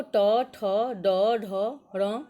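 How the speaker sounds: teacher loudly reciting a consonant group; loud letter recital. Shown as a demonstration. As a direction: call each letter out to the whole class. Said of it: "ट वर्ग देखो".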